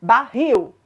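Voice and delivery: BARRIL repeated firmly, ba-RRIL, weight on the end; stress on last syllable. Shown as a demonstration. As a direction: show the strong final syllable of BARRIL. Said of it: "a sílaba mais forte é a última".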